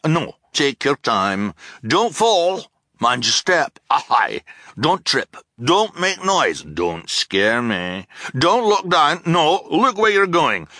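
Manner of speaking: high, loud rapid-fire orders, cheerful and scattered; cheerful scattered shouting. Acted. Captain shouting jumbled ladder instructions at the orphans, cheerful. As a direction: bark silly commands cheerfully, changing mind constantly. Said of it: "The voice was shouting out so many instructions".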